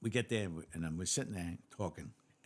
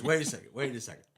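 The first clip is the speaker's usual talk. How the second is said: louder, higher, stunned disbelief; incredulous inspector; 7 semitones higher, 7 dB louder than usual. Acted. Inspector questioning cops who outsmarted the chief, incredulous. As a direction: stop everything, loudly astonished, acting out the boss. Inspector reacts to breakfast story.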